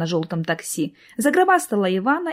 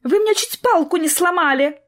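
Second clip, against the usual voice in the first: indignant; 7 semitones higher than usual. Acted. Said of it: "возмутилась девушка с селфи-палкой".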